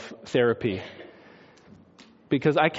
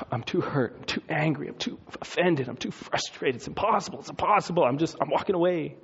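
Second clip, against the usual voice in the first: despairing disciples; 5 dB quieter than usual. Pretend. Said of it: "they're stuck".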